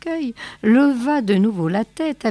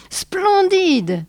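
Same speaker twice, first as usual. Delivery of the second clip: a husky, moved murmur rising high; hoarse with emotion; 11 semitones higher, 4 dB louder than usual. A narrator's reading. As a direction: breathe it out, choked with feeling. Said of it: "murmura-t-il, la voix rauque d'émotion". (murmure rauque d'émotion)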